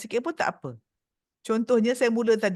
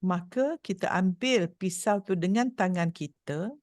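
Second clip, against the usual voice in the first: guided visualisation. Shown as a demonstration. Leads eyes-closed imagery exercise.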